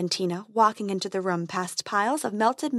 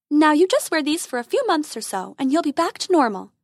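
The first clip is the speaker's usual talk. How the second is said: fairy voice; 5 semitones higher, 4 dB louder than usual. Acted.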